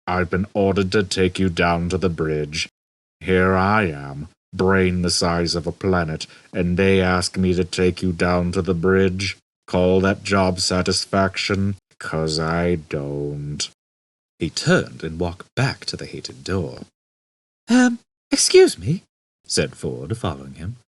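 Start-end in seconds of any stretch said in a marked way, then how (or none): 0.1-13.7 slow, weary gloomy drone; depressed robot. Acted. Marvin moaning to Ford and Arthur, weary drone. 17.7-19.0 much higher, louder polite interruption; Ford's voice. Acted. Ford interrupting the gloomy robot, high and polite.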